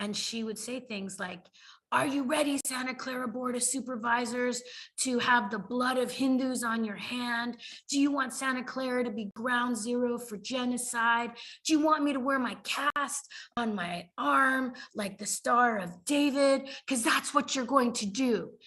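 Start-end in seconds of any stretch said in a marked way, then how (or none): 1.9-18.5 loud, furious, top-of-the-lungs acted yell. Retelling a woman's unhinged testimony to supervisors: imitating someone yelling furiously. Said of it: "she was yelling at the top of her lungs".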